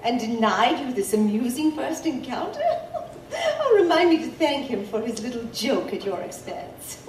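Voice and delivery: laughing through the words; amused laughing. Acted. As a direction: tease her while chuckling. Amused at the little joke.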